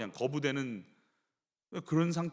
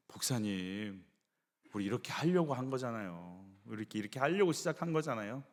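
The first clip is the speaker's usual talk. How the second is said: soft plea; 7 semitones lower, 7 dB quieter than usual. Retold or imitated. Volunteer pleading with the pastor.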